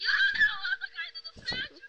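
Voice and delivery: put-on high squeaky girlish cry; little girl voice. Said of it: "Falou com voz de menininha agora".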